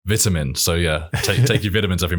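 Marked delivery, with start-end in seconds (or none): 0.1-0.5 vitamin in British English, VIT-a-min with a short i; British accent. Shown as a demonstration. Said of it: "how about vitamin?".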